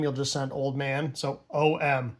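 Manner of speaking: usual speaking voice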